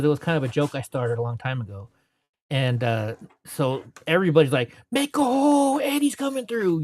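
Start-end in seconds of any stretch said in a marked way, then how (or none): 4.9-6.8 high crowd shout to clear the way; calling out. Retold or imitated. Marchers clearing a path for Eddie, calling out. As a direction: call it out to the crowd ahead.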